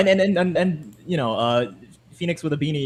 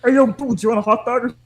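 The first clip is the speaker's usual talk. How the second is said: nasal Gumshoe voice; 5 semitones higher, 3 dB louder than usual. Pretend. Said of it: "very nasal voice".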